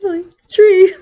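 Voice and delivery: high-pitched words squeezed through laughter; helpless laughter. Real, not acted. Teller repeats the deaf tree punchline, cracking up. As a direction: laugh your way through the words, breaking them up. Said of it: "you can't help but laugh".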